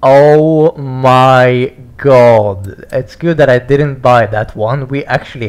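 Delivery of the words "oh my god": awed. Real, not acted. Amazed at new cars.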